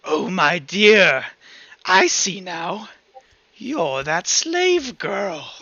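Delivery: slow, drawn-out mocking creature voice; sneering monster, lightly voiced; gloating creature. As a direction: savor the recognition, slowly. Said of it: "this creature is gonna cackle loudly and go".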